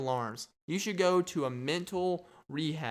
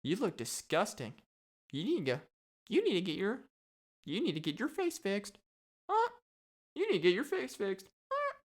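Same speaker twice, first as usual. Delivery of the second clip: high parrot heckle with squawks; squawking parrot; 8 semitones higher than usual. Acted. Parrot mocking visitors' faces, high squawky voice. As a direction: insult them like a parrot, squawk after.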